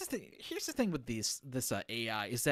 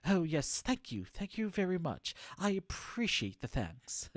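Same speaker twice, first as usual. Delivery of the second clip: higher, lightly put-on grateful reply; mock gracious artist; 5 semitones higher than usual. Streamer as Maya thanking the executive, mock gracious. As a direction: play at politely accepting lavish praise.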